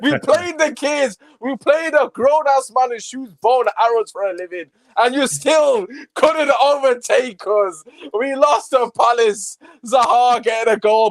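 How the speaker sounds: gloating taunt. Real, not acted. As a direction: lean on every word to rub their noses in it. Taunting rival fans directly.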